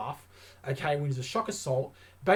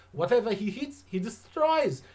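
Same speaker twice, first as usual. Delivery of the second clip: put-on hammy Russian accent, pitched higher; bad Russian accent; 5 semitones higher than usual. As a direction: Ivan Drago style Russian accent, played up. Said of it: "It's a bad Russian accent".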